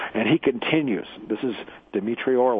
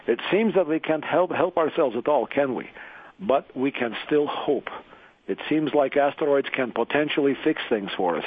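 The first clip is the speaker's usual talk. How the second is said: lightly put-on Russian accent, pitched higher; 4 semitones higher than usual. Radio host reading a friend's essay to listeners, Russian accent. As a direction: read it out in a mock Russian accent. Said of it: "with a Russian accent".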